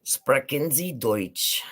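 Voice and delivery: Sprechen Sie Deutsch asked very slowly; slow German question. Shown as a demonstration. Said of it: "Guten Tag is good day".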